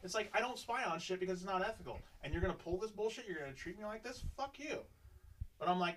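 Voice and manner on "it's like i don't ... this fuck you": furious. Retold or imitated. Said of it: "I'm furious inside".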